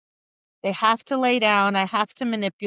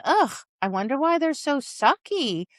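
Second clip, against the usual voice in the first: mock exasperation; 3 semitones higher than usual. Mock complaint about the dogs.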